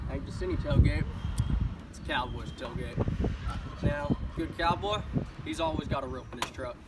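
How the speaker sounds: a lightly voiced tough cowboy, proud and folksy; hammed-up cowboy. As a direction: play a boastful rancher showing off his truck. Cowboy character skit, truck demo.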